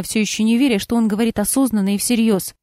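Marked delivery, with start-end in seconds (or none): none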